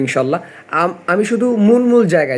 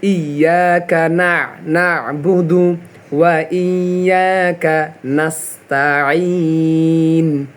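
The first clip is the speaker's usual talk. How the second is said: slow recitation; slower than usual. Shown as a demonstration. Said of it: "শব্দে শব্দে মিলতে হবে".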